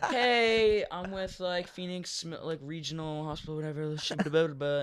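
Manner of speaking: high-pitched imitation of a hospital caller; phone-call voice. Hospital worker calling the supposed dad, phone-call voice. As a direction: rattle off the introduction in a high voice.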